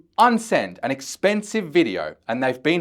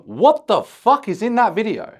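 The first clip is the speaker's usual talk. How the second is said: higher, louder mock subscriber asking; curious subscriber; 7 semitones higher, 4 dB louder than usual. Subscriber demanding to know the video's contents, higher and louder. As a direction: squeak it out like an eager fan dying to know. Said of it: "he's gonna start going".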